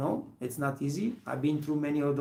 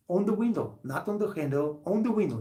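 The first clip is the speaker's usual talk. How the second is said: outraged stress on the window, not on the handle; hammering on where he pushed; indignant emphasis; 5 semitones higher than usual. Retold or imitated. Angry retelling of greasy hand.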